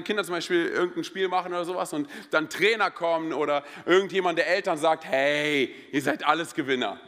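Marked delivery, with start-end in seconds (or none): 5.0-7.0 lower, drawn-out soothing hey; consoling parent. Retold or imitated. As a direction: imitate a coach comforting the kids. Imitates consoling coach or parent.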